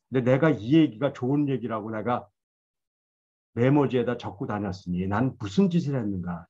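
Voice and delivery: ordinary delivery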